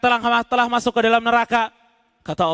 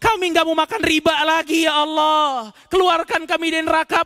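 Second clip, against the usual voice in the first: raised, imploring promises to God; pleading sinners; 5 semitones higher than usual. Acted. Souls in hell promising God to do good, imploring. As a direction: bargain desperately for another chance.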